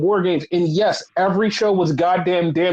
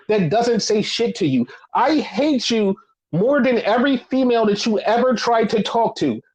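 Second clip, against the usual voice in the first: real, emphatic hate rant; angry rant. Real, not acted. Wrestling fan ranting at people who say the Fed, angry. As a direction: drive each accusation home, word by word. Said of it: "stop my rant there".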